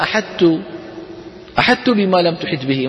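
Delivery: أحدت said with the ط turned into a plain ت; childlike mispronunciation. Shown as a demonstration. Teacher mocks the wrong childlike reading. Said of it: "مثل كلام الأطفال".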